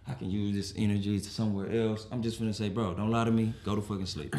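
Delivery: low-key, controlled warning; calm. Acted. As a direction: keep the annoyance calmly contained. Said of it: "very calmly".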